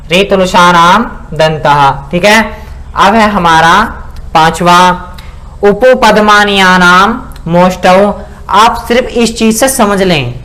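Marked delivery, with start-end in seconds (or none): 0.1-2.1 slow sutra recitation. Shown as a demonstration. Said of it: "recites the sutra again". 5.6-8.0 slow sutra recitation. Shown as a demonstration. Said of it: "recites next sutra".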